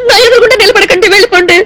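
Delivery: tearful, voice breaking as she sends him off; crying. Acted. Girl in tears telling the man to leave. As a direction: push him away through tears. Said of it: "ఎందుకు ఏడుస్తున్నట్టు?".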